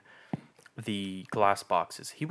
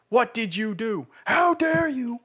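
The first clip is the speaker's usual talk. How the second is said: put-on higher, louder old woman shrieking accusations; yelling old woman; 14 semitones higher, 7 dB louder, slower than usual. Old woman accusing the clerk, outraged yell. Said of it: "This woman just yelled at me".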